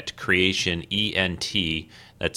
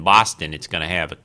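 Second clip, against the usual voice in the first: a half-hearted stab at a Boston accent; bad Boston accent. Shown as a demonstration. Podcast host teasing Boston listeners, in a weak mock Boston accent. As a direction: try the Boston accent, then give it up. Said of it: "Oh, that's a terrible accent".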